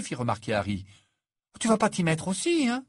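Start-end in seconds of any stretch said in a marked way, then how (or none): 1.6-2.8 high, bitter reproach; bitter exclamation. Acted. Hermione reproaches Harry for defending Fleur, bitter. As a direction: accuse him of joining in. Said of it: "s'exclama Hermione d'un ton amer".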